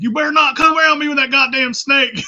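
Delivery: high, loud mock panicked warning; hammed-up high shouted threat; scared threat. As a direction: yell it like a big man terrified of snakes. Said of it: "Be like".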